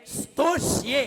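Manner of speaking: "स्तोष्ये" opening on a long bare s; no vowel before "स्तोष्ये"; correct pronunciation. Shown as a demonstration. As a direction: sstoshye for "स्तोष्ये". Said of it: "ऐसे ही".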